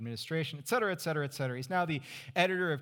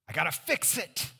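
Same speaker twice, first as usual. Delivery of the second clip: fix-it mindset; 4 semitones higher, 3 dB louder than usual. Retold or imitated.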